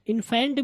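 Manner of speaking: इन्फेंट wrongly as in-FAENT; broad ae in the second syllable of इन्फेंट; stretched wrong vowel in इन्फेंट; mispronunciation demo. Shown as a demonstration. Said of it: "इन्फेंट भी नहीं है ये".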